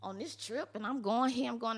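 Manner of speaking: high, bright mock cheer, pretending all is fine; fake cheerful. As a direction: chirp it out like nothing is wrong. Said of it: "And I was like".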